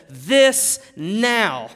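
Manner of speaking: loud, emphatic exclamation; each word thrown out loudly; Adam shouting. Acted. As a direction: call it out, frustrated at being alone so long. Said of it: "he's frustrated 'cause he's alone".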